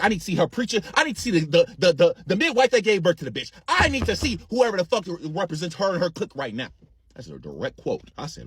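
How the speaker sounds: ordinary talk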